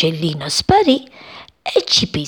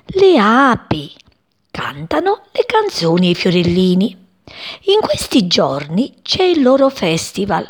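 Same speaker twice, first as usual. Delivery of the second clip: smiling; 3 semitones higher than usual. Acted. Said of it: "rispose la mamma sorridendo".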